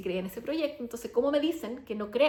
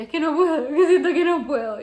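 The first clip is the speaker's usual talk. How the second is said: retold distressed cry; 5 semitones higher, 10 dB louder than usual. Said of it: "yo sentía".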